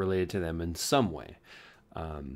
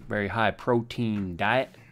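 bad Southern accent; slower than usual. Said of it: "It's a very bad Southern accent".

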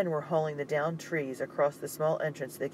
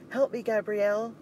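loud, much higher urgent call; strained cry for help; 8 semitones higher, 4 dB louder than usual. Acted. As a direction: call out while pushing hard. Straining against the barricade.

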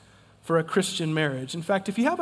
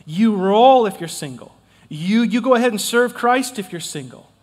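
emphatic quote; 6 dB louder than usual. Retold or imitated. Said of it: "Paul says very simply".

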